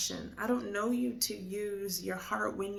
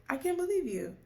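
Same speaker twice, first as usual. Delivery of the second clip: offended disbelief; 9 semitones higher, 3 dB louder, faster than usual. Retold or imitated. Father offended by her words.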